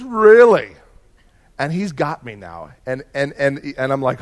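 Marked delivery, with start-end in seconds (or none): 0.0-0.8 louder, higher, surprised seatmate; surprised really. Retold or imitated. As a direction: act surprised, pitch up. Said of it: "He says".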